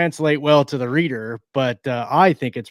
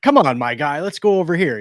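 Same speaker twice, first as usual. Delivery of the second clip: lightly voiced buddy-buddy character, a bit higher; tertiary character; 4 semitones higher, 3 dB louder than usual. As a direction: lightly play the "my guy" character. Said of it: "one tertiary character in this book ... says "My guy".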